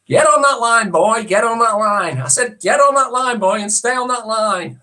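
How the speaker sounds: put-on strict coach yelling at a boy; stern drill instructor. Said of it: "number seven is".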